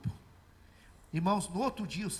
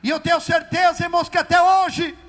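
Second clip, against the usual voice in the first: loud, higher, fervent testimony; preaching at full force; 5 semitones higher, 12 dB louder than usual. Acted. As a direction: proclaim it to the church.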